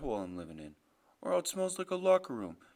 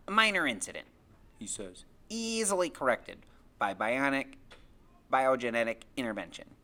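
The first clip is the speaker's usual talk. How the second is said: put-on precocious boy Freak; 3 semitones lower, 5 dB louder than usual. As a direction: declare it like a little know-it-all scientist. Narrator voices Freak in the story.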